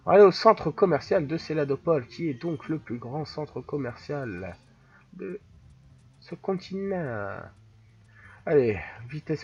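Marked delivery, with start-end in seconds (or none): 0.1-7.4 mock Italian accent, slowing toward the end. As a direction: announce it with a put-on Italian accent. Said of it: "je vais rester avec l'accent italien".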